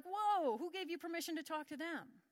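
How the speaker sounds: a sharp, high startled whoa, then tails off; mock alarmed whoa. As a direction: play the shocked sales guy, lightly. Sales objecting to customer talks.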